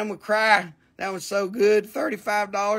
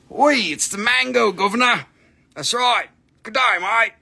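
mock Cockney accent; 2 semitones higher than usual. Mock British and Aussie catchphrases.

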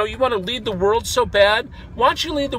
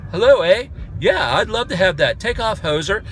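a hint of a Canadian accent, played for laughs; breezy fake Canadian with a tossed-off eh; casual mock Canadian accent, lightly done. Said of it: "I travel the world as a Canadian".

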